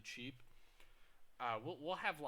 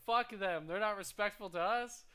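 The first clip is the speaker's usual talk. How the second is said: higher and louder, a mock furious snap at the manager; retold angry outburst; 7 semitones higher, 7 dB louder than usual. To the manager about rude customers, a retold angry outburst. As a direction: fire it back like you're fed up with rude customers. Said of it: "I'm like".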